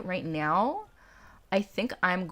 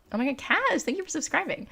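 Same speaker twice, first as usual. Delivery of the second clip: high, excited thanks; excited squeal; 9 semitones higher than usual. Real, not acted. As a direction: squeal with delight.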